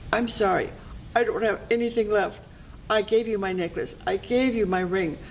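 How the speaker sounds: a hint of a helpless, apologetic girl. Girl has nothing left to give.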